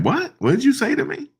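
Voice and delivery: a mock-outraged spike on what, then the question in the same high voice; indignant what. Zelensky snapping back at Vance, high and indignant. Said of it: "Zelensky was like".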